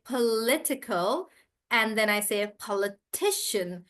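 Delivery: political with li stressed, politician with ti stressed; shifting stress. Shown as a demonstration. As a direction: move the stress along the word. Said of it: "the stress also changes".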